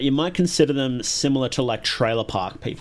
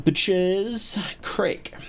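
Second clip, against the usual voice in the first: drawn-out, slow French pronunciation; mock French accent; 6 semitones higher, much slower than usual. Streamer repeating the game's title as the French call it, mock French accent. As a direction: say it slowly with a put-on French accent. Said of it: "as the French call it".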